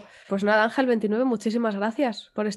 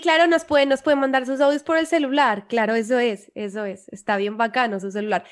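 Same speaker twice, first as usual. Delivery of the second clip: put-on Colombian accent. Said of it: "no ha dicho la palabra celular".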